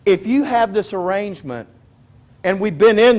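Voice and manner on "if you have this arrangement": normal talking voice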